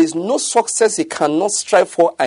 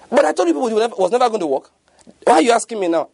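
higher, whiny told-you-so; told-you-so whine; 6 semitones higher, faster than usual. Retold or imitated. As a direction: gloat that you were right all along. Pessimist says I told you.

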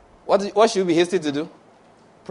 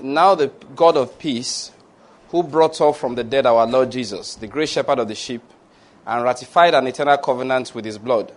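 measured, rolling pronouncement of blessing; preaching blessing; 2 semitones lower than usual. Acted. Pastor pronounces blessings over the congregation, measured and rolling. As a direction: bless the flock with steady authority.

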